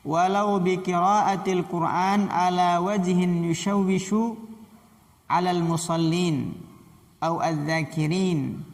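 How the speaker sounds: measured, carrying read-aloud of a religious text; Arabic text recitation. Acted. Teacher reads the Arabic rule to students before explaining it, formal recitation.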